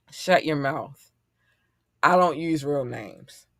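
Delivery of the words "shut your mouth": slow warning. Real, not acted. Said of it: "But I will say this".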